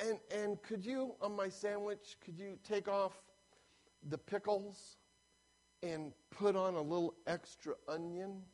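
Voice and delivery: lightly voiced meek customer; lady ordering. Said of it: "and she's saying".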